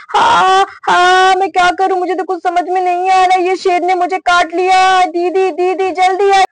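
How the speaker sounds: lightly acted panic, calling for sister; distressed wail. Bitten mother calls her sister, distressed.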